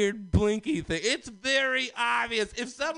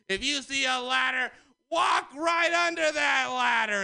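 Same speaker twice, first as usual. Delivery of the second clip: paranoid rant; 3 semitones higher than usual. Acted. Ranting conspiracy persona.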